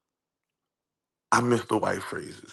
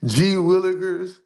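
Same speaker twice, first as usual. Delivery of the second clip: mock white phrases; 6 semitones higher than usual. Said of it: "my favorite white phrase is".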